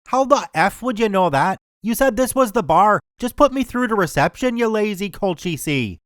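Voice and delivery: rising, annoyed put-on Belfast accent; a drunk Belfast caller losing patience; angry Belfast accent. Drunk caller demanding reception, mock angry Belfast accent. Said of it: "I know my accent isn't even close".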